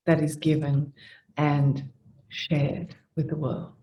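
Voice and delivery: quiet, unhurried thanksgiving with long pauses; meditative giving of thanks; prayer of thanks. Acted. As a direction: lead them gently into gratitude, letting phrases settle.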